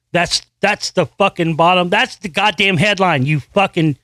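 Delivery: snapping at the article, worked up; getting heated, then cut short; angry rant. Real, not acted. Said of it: "I'll calm down".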